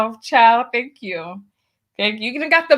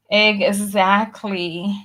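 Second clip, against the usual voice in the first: slow drawn-out exactly; 3 semitones lower, much slower than usual. Real, not acted. Third emphatic agreement.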